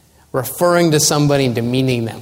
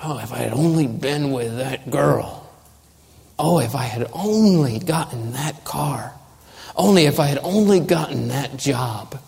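soft, low, mock lament; wistful regret; 3 semitones lower, 5 dB quieter than usual. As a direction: sigh over what might have been, quietly. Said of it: "thinking about trivial disappointments".

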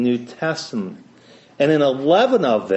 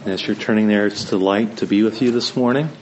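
Appalachian accent; 3 semitones lower than usual. Real, not acted. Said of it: "my, uh, Eastern Ohio Appalachian twang".

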